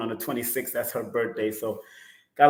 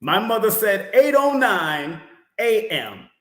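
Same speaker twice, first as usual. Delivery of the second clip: exasperated emphasis; 7 semitones higher, 5 dB louder than usual. Real, not acted. Repeats times, exasperated.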